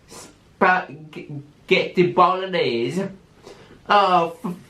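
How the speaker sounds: slow, savoured mock Italian accent; a hint of an Italian accent. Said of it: "The Italian accent".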